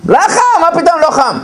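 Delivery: indignant wife. Retold or imitated. Wife indignant at husband's denial.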